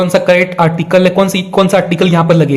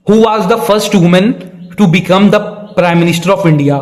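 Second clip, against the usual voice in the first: slow, careful reading of the question; slow quiz read; much slower than usual. Acted. Teacher slowly reading a quiz question to students. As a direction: read it out word by word for the class.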